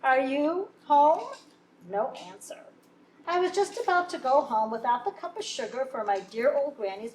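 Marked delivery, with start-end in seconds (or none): 0.0-1.3 high, loud sing-song call; wolf calling the pig, high and loud. Acted. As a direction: call sweetly through the door. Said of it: "so I called".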